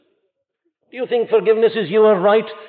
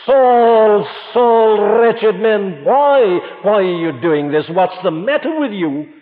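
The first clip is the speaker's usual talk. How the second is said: the Lord pleading with Saul, louder sorrowful appeal; 3 semitones higher, 3 dB louder, slower than usual. Retold or imitated. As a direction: plead with him, hurt rather than harsh. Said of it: "the sorrow in the voice".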